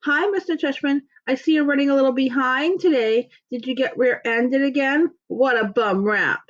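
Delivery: high, put-on old lady voice, slowing at the end; dad doing a fake high old lady voice to make his son laugh. A narrator's reading. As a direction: play a silly old lady teasing the principal. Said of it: "fake high old lady voice".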